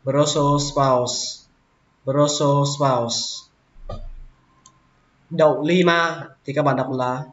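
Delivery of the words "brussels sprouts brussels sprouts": "Brussels sprouts" slow, with the two s sounds joined; linked s sounds. Shown as a demonstration. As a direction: glide from "Brussels" straight into "sprouts". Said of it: "các bạn nối qua âm sờ luôn".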